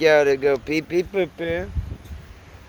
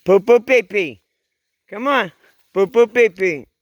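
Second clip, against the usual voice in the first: coaxing dogs; 5 semitones higher, 9 dB louder than usual. Real, not acted. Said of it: "need to be more patient".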